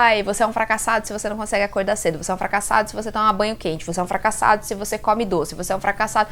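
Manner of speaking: a fast, lightly voiced mock coach lecture. Vlogger mocking hustle coaches for her followers, fast light mockery. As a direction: rattle it off like a preachy coach, mildly mocking. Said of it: "Tem até coaches aí que vão falar".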